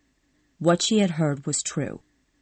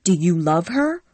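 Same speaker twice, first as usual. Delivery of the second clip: angrily; 4 dB louder than usual. Acted. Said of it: "Scarlett interrupted angrily".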